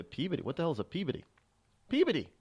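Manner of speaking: puzzled, soft echo of an unknown name; baffled outsider. Retold or imitated. Outsiders puzzled by a New England town name, baffled. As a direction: repeat the odd name in bafflement. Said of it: "people look at you".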